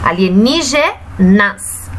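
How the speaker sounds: slow "Alienígenas", a pause before "nas"; last syllable separated. Shown as a demonstration. Teacher locating the last syllable, slow and separated. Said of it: "a última sílaba da palavra".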